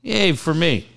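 high mock-cheerful yay; sarcastic cheer. Real, not acted. Dad of twins mock-cheering about their driving. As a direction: fake delight over a burden.

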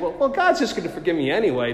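quick, careless dismissal; presumptuous shrug. Retold or imitated. Mimicking the careless attitude of presuming mercy, quick and breezy. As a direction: toss it off like it costs nothing. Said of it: "with that attitude".

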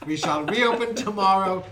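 laughing store PA announcement; over the intercom. Pretend. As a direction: announce closing like a shop speaker.

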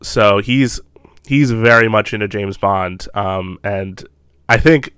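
talking while eating; chewing while talking. Real, not acted. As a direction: mouth full of dinner. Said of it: "sorry, I'm also eating dinner".

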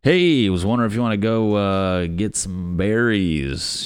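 shy human. Acted. First shy human asking someone out for berries, mock shy. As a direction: play a mock-awkward invitation, dragging the ending. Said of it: "when was the first shy human?".

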